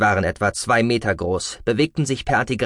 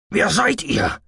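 frightened officer; 8 semitones higher, slower than usual. A narrator's reading. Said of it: "fragte Harmon".

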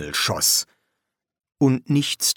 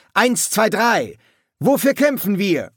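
very high, raised-voice chant; rallying cry; 11 semitones higher, 4 dB louder than usual. A narrator's reading. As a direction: count off and rouse the troops. Vampire leaps up, shouting rally cry.

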